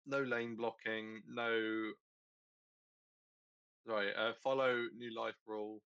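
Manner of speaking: talking through hiccups; holding back hiccups mid-list; suppressing hiccups. Real, not acted. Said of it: "Sorry, I have hiccups".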